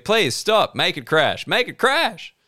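high, loud comic plea; yelling. Pretend. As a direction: yell it, pitch leaping up by the end. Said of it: "yelling "crash" probably isn't great".

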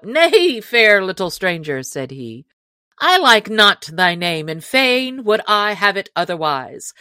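playful mock christening, lightly played; lightly voiced joking outlaw. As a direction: poke fun at the big stranger. Will Stuteley jesting.

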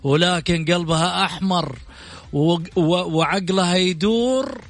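showy announcer build-up over music; grand TV show host introduction; TV presenter intro. Acted. Host's dramatic guest introduction over music.

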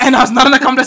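"not" said loud and high in a mock Boston accent. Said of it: "I was trying to do a Boston accent".

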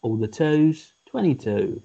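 energy draining away as the pitch drops; imitating a worn-out bingo caller; tired bingo caller. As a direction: call it wearily, sinking at the end. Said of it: "if I'm tired".

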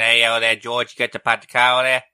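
mock Boston accent calling out to George; lightly hammed Boston accent shout-out. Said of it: "That's my Boston accent".

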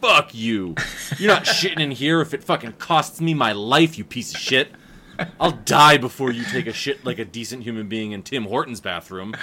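loud, snarling tirade at a customer; angry outburst. Retold or imitated. Clerk refusing a customer the bathroom, loud angry rant. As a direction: chew her out like an enraged clerk. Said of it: "And I go".

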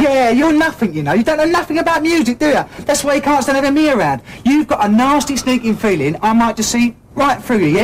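angry outburst. Acted. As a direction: lash out at the bandmate. Band quarrel, keyboardist lashing out.

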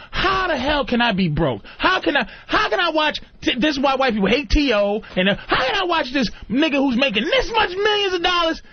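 mock-outraged entitled guy, shouting at one point; imitating a bitter entitled man; entitled complaint. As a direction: rant like a man who feels robbed. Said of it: "that entitlement shit where you go".

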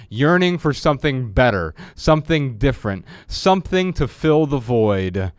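measured book reading voice; reading from his book. Acted. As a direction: read the passage aloud, deliberately. Reads his book aloud.

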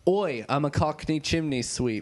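lightly put-on Cockney; mock Cockney patter; Cockney accent. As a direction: play a Cockney chimney sweep. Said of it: "I have to put on the accent".

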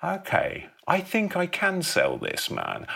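high, eager rush of a sudden idea; excited epiphany. Acted. Elliot in the cinema, excitedly pitching to himself. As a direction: pump yourself up, the idea is landing.

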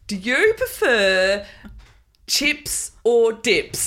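slow, drawn-out question with big pauses; mock-dramatic game host, word by word; mock show host. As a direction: pose it like a momentous choice. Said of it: "And then they have to, like".

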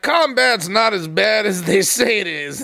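lightly voiced old man, slow. Old man playing down combat, lightly voiced and slow. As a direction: take it slowly, a hint of old war veteran. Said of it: "I was the old man being like".

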